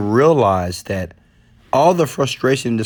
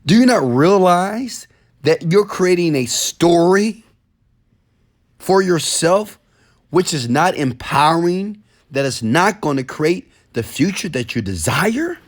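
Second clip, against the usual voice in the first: exasperated inner question; 5 semitones higher than usual. Retold or imitated. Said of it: "I'm thinking to myself".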